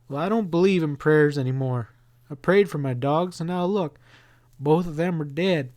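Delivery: Billy losing faith, voice lifting; bitter boy. Acted. Boy tells his mother he no longer believes in prayer, bitter.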